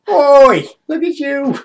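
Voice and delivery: high, hammed-up English rapscallion; terrible English accent. Player mimicking the thug's taunts, terrible English accent. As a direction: do a bad Victorian English street rogue. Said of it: "that's a terrible accent".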